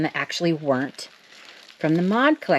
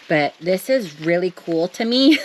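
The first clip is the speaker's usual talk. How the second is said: laughing. Real, not acted. Laughing while saying it.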